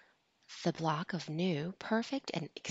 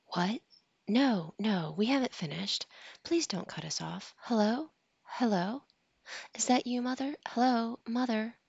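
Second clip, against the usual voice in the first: loud, higher anxious hellos; calling out on phone; 6 semitones higher, 4 dB louder than usual. A narrator's reading. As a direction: call down a dying line. Calling into dropped phone line.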